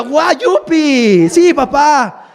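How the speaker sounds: sarcastic fake delight; mock kid excitement. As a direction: play a child pretending to be thrilled. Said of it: "espera que el hijo diga".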